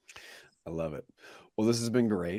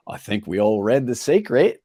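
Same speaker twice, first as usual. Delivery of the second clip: slow, louder, hammed-up bad Australian accent; mock Aussie, drawn out and a bit louder; 4 semitones higher, 6 dB louder than usual. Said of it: "that was a terrible Australian accent".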